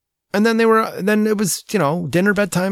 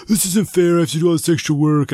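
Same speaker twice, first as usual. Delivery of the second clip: lightly voiced complaining kid, higher at first; a hint of a child's indignant protest; 3 semitones higher than usual. Son objects to dad about extra work, mock protest.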